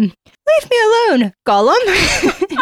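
very high, loud mock sobbing; Smeagol voice. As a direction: wail slowly in a hammed-up pitiful squeal. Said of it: "he sobbed in his throat".

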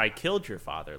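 usual speaking voice

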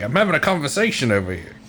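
an attempted Cockney that slips into Australian; failed Cockney accent. Podcaster trying a Cockney frogman, accidentally Australian accent. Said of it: "That was Australian that I just did".

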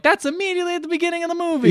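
incredulous. Retold or imitated. Own incredulous reaction.

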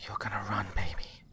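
whispered through gritted teeth. Acted. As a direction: force it out between clenched teeth. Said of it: "through gritted teeth".

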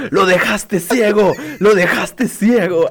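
high, slow drawn-out yell; slow hammed-up shouting; mock yell. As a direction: stretch out the accusation. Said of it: "Ruli gritando".

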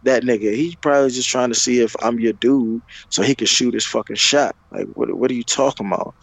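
retold irritated dismissal. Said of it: "And then I'm like".

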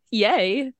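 squealed little cheer; excited yay. Retold or imitated. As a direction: cheer like a giddy nerd. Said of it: "my science nerdy self was like".

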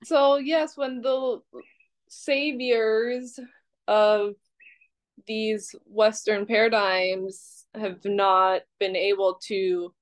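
mock-grand sarcasm, drawn out with pauses; dryly facetious, with a laugh just after. Real, not acted. Criticizing the saviors of Western paradigms, facetious. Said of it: "I'm being facetious".

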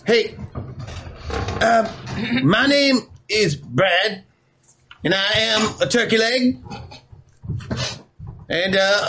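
lightly voiced nervous singer, earnest and shy; a drumstick pouring out his heart, just a hint of a voice; earnest drumstick character. Game master as Brad, thanking friends before his song, earnest.

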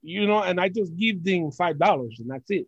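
playful put-on broken English; lightly hammed Puerto Rican accent. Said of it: "hear me do that".

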